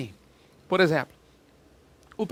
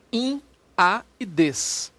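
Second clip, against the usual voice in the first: slow listing; much slower than usual. Shown as a demonstration. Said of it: "Vou repetir".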